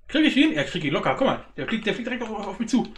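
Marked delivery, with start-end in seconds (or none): 0.1-0.5 very high, loud excited squeal; shrieking jackpot winner. Real, not acted. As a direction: squeal it, can't believe your luck. Chasing the UFO.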